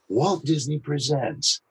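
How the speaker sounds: slow, soft copy of his trailer read; imitating Scott Rummel. Shown as a demonstration. Voice actor copying a colleague's trailer read, imitative. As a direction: mimic his cadence, slowly. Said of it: "How could I imitate Scott Rummel".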